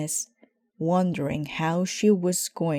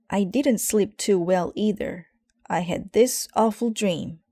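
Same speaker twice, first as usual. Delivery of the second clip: admitting; 4 semitones higher, 4 dB louder than usual. Acted. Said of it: "admitted Brother".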